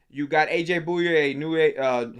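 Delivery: tripping over "Bouye" and "new, uh"; stuttering. Real, not acted. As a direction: stumble through the name, hesitating. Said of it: "I'm over here stuttering".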